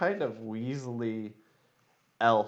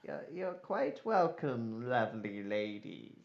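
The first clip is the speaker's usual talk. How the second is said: weaselly courtier; 5 dB quieter than usual. Acted. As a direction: draw out the gallantry. Weaselly elf answers the flattery.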